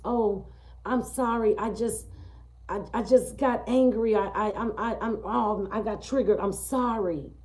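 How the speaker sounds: put-on a boyfriend pleading after slapping her; apologizing boyfriend. Abusive boyfriend apologizing, voiced.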